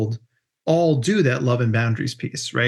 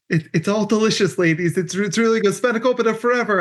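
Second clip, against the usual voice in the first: higher, sweet placating tone; soothing the church ladies, a touch higher; mock polite to old ladies; 6 semitones higher than usual. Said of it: "And I was like".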